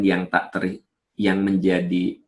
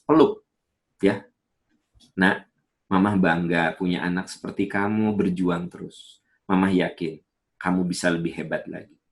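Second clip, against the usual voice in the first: proud mother. Retold or imitated.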